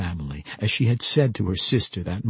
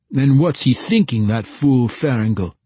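louder, gruff country man voice; gruff village man; 5 semitones higher, 7 dB louder than usual. Acted. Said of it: "now in the gruff tones of a village man".

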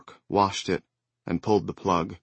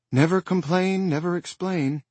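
wan smile; 10 semitones higher than usual. Acted. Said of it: "smiling wanly".

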